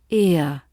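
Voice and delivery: relaxed "ear" gliding gently to uh; gentle ear glide. Shown as a demonstration. Teacher models a relaxed ear glide. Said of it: "glide gently to the ear".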